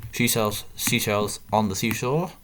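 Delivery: slow, careful first try at the tongue twister. Shown as a demonstration. Player trying a tongue twister on stream, slow and careful. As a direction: feel your way through each word slowly. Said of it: "Gotta say that a bit faster".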